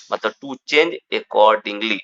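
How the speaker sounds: very slow, each English word spaced out; slow dictation. Shown as a demonstration. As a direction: dictate the meaning slowly for students. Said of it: "teacher dictating meaning slowly". (बहुत धीमे, शब्द-शब्द बोलकर)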